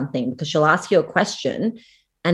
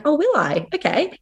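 mock surprise; 10 semitones higher than usual. Retorts to psychic's crude suggestion.

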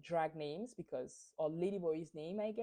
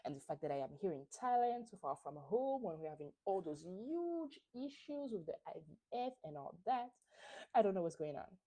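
softer, hushed mock-tearful lament; mock crying; 4 dB quieter than usual. Candice crying about home and IVF, softer mock tears. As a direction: play up a teary overwhelmed plea. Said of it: "and she's crying, and she's like".

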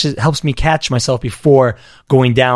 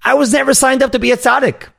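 defiant inner reply; 11 semitones higher than usual. Retold or imitated. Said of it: "but rather it's like".

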